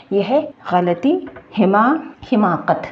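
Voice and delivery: गलती and हिमाकत said slowly and distinctly; careful teaching. Shown as a demonstration. Teacher gives the Urdu word हिमाकत slowly to learners. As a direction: slowly model हिमाकत syllable by syllable. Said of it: "तो हिमाकत ये है".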